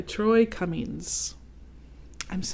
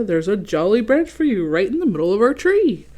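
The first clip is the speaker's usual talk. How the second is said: louder jolly Santa voice; louder, cheery Santa; 6 dB louder than usual. Acted. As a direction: welcome him warmly and big.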